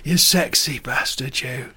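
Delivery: hammed-up northern English accent; Hilary Devey. Inventing Hilary Devey's aftershave advert, mock northern English accent. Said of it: "Hilary Devey would bring out".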